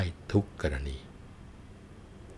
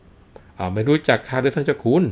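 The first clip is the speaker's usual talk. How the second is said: teasing nobleman; 6 semitones higher, 6 dB louder, slower than usual. Acted. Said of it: "ท่านผู้รั้งฟังแล้วก็หัวเราะ".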